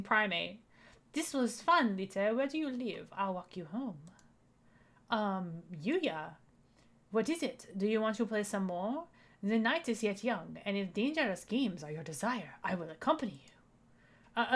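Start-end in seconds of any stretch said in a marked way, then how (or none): 1.1-4.0 bad French accent. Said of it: "my bad French accent". 7.1-13.5 bad French accent. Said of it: "my bad French accent".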